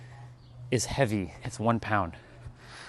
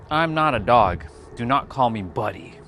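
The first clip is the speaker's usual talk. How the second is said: mild mock protest; 4 dB louder than usual. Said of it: "I was like".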